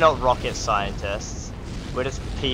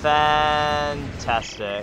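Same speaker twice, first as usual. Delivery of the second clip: drawn-out sarcasm; much slower than usual. Real, not acted. Sarcasm at another fire.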